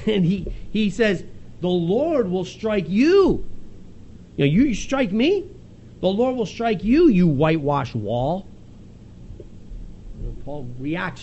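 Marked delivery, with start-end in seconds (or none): 1.6-8.5 retold sharp rebuke, slow and weighty; snapping back. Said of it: "Paul then snaps back".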